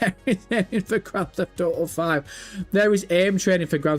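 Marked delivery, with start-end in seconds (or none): 0.0-2.2 laughing. Real, not acted. Laughs while reading a message.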